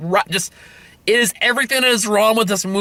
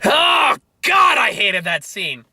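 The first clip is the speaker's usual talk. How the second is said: exasperated yell; 3 semitones higher, slower than usual. Real, not acted. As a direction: let out the last of the anger. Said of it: "yelling in his car".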